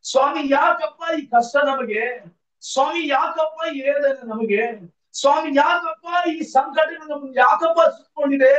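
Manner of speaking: slow, drawn-out plea, building in force; repeated anguished appeal, swelling as it goes; tearful lament. Acted. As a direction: cry out to God in acted grief. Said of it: "ಕಣ್ಣೀರಿಡ್ತಾ ಇದ್ದಾನೆ".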